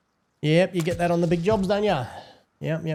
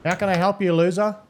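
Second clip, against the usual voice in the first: pitched-up, louder digitally morphed voice; voice changer; 5 semitones higher, 6 dB louder than usual. Acted. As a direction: sneer through a voice changer. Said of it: "Talk again".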